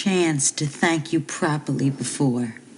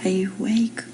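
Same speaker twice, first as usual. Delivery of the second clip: whisper; 4 semitones higher, faster than usual. Acted. Wife checking if husband is awake in bed, whispering. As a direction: whisper so as not to wake him.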